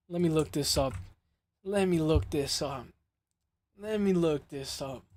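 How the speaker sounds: soft, slow absent-minded repeating; murmuring to self. Real, not acted. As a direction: trail along quietly while busy searching. Murmurs to self while searching.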